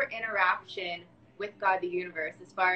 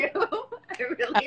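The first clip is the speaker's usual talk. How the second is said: laughing, drawn out; 6 semitones higher, much slower than usual. Real, not acted.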